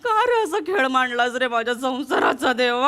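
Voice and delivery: hammed-up sobbing plea to god, stretched out; melodramatic wailing. Wife hams up a tearful lament to god over their marriage, melodramatic wailing. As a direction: wail at god like a wronged wife in a soap.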